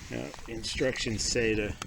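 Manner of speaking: talking with a spoon in mouth; words round a spoon; mouth full. Real, not acted. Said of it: "I've got my spoon in my mouth".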